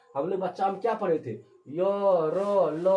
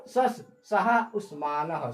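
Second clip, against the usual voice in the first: sutra recitation; slower than usual. Shown as a demonstration. Teacher repeats sutra slowly.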